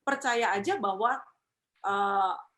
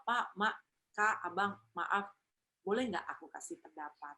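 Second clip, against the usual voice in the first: polite humble request; 4 dB quieter than usual. Shown as a demonstration. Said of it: "dimulai dengan kalimat".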